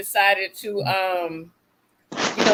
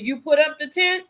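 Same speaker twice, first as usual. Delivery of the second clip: incredulous question; 6 semitones higher than usual. Retold or imitated. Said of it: "I said".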